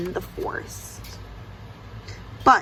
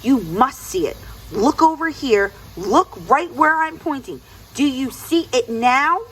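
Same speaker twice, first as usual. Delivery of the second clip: growing angry; 5 semitones higher than usual. Acted. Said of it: "Anansi began to get angry".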